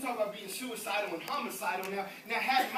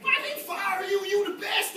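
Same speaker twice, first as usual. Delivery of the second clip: higher, indignant mock parent; 8 semitones higher than usual. Parents defending their fired child, higher and indignant. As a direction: take the child's side in disbelief. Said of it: "Dad and Mom be like".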